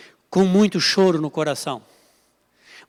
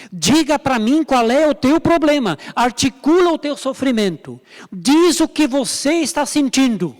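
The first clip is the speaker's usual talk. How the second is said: higher, firm, urging voice of Jesus; Jesus urging gently; 3 semitones higher than usual. Acted. Jesus telling the weeping Mary Magdalene to stop crying, urging. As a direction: coax her to speak up, lifted and earnest. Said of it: "Jesus tá dizendo pra Maria Madalena".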